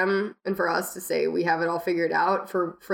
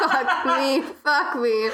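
laughing; 7 semitones higher, 4 dB louder, much slower than usual. Retold or imitated. Laughing while retelling own reaction.

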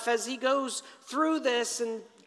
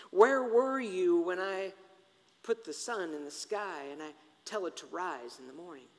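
God questioning; 3 semitones lower, 4 dB quieter than usual. Acted. God questioning Job about the sun, quietly challenging. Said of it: "So God begins".

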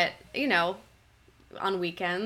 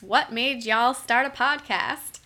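a slow, hammed-up Texas drawl, a bit higher and louder; mock Texas accent; 4 semitones higher, 5 dB louder, slower than usual. Reading a Texas listener's question aloud, in a playful mock Texas accent. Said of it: "That's my best Texas accent".

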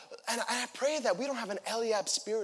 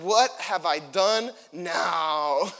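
David's retort; 4 semitones lower, 6 dB louder, much slower than usual. Acted. David retorts to angry brother.

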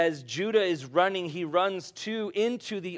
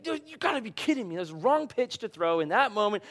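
mock frustrated fan; 5 semitones higher, faster than usual. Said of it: "I'm like".

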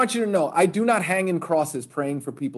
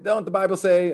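higher-pitched mock challenge; lightly voiced goading hooligan; challenging hooligan; 4 semitones higher than usual. Hooligans challenge the converted fighter.

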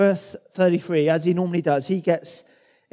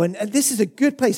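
higher, bright-eyed insistence on "good place"; quick eager take; eager Peter; 4 semitones higher than usual. Retold or imitated. Peter repeats the line.

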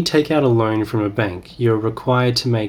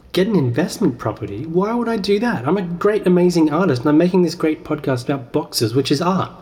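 higher-pitched, huffy insistence on his genius; offended self-proclaimed artist; 5 semitones higher than usual. Acted. Playing himself rejecting investment property advice, hammed-up huffiness. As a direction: scoff grandly, as if the idea insults him. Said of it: "Let me go again".

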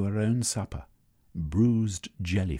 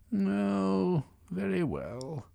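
high, giving-in woman voice; reluctant woman voice; 12 semitones higher, much slower than usual. Acted. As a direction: sigh and give in. Semiotica relenting.

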